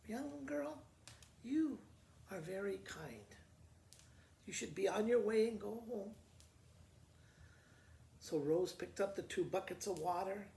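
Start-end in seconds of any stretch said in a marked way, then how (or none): 0.1-6.2 lightly voiced old lady. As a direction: gently send the girl home as the old lady. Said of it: "Then the lady goes".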